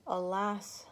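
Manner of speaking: breathy whispered gasp; gasped alas. Acted. Exhausted woman gasps to herself, whispered. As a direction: gasp it out under your breath. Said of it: "gasped Oonanana to herself".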